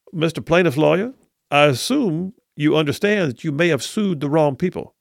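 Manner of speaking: lightly done Southern judge; Southern accent. Retold or imitated. Attorney imitating old judge warning plaintiff's lawyer, light Southern accent. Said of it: "you do a good Kay Ivey slash Southern accent".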